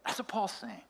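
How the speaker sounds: breathy whispered aside. Real, not acted. Pastor to his congregation after the story, whispered. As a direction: drop to a whisper to land the point.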